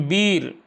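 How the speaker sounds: वीर with a long, pressed ई; long stressed ee. Shown as a demonstration. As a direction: lean on the vowel of वीर and hold it. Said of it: "वीर पे ज़्यादा थोड़ा सा जोर लगाना पड़ता है". (वीर में ई को लंबा और ज़ोर देकर)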